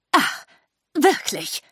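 mildly mocking, drawn-apart question. A narrator's reading. Lady Lesso answering Sophie's sighting, mocking. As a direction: feign interest with scorn. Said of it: "sagte Lady Lesso spöttisch".

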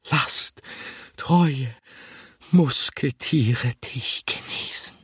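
slow, hushed, breathy whisper; dreamy whisper to the Camembert; breathed whisper. A narrator's reading. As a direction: breathe it like a secret to the cheese. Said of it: "hauchte er".

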